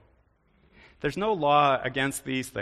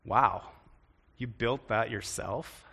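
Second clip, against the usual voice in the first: impressed tone; 3 semitones lower, slower than usual. Shown as a demonstration. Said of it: "it's all in the tone of your voice".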